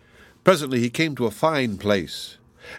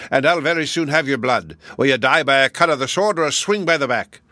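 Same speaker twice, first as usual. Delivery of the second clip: giant threatening; 4 semitones higher, 4 dB louder than usual. Acted. Six-headed giant threatens Billy.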